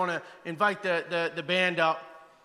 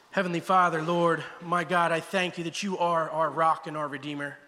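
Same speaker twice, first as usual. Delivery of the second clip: prayer. Acted. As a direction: pray humbly over the church. Pastor leads closing prayer.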